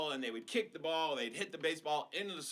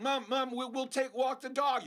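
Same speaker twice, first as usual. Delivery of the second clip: put-on high, loud eager kid voice; bargaining kid; 8 semitones higher, 3 dB louder than usual. Kids bargaining with mom, high and loud. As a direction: offer chores like a pushy kid.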